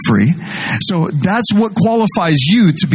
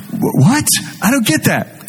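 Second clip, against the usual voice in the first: mock confusion; 8 semitones higher than usual. Voicing a confused listener.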